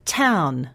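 "Town." with a clear puff of air on the t; strong t sound. Shown as a demonstration. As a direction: breathe out hard on the t of "Town.". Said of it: "Try saying these words with me".

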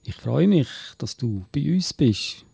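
Swiss German poem, read in measured phrases; Gedichtvortrag. Acted. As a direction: recite a Christmas verse line by line. (Gedicht auf Schweizerdeutsch vortragen)

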